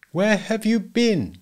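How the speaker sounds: slow, high-pitched demand; insistent husband. A narrator's reading. Husband pressing his evasive wife for an answer, accusing. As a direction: repeat the question, stretched and insistent.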